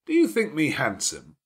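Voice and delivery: a lordly host giving orders at ease; gruff master of the house. Acted. Rochester teases Jane.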